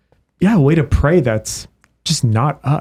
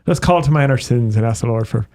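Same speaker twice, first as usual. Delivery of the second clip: Irish brogue. Retold or imitated. Seminarian resuming his practice Mass, in an Irish brogue. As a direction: slip back into an imitated Irish brogue. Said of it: "You have, like, an Irish brogue".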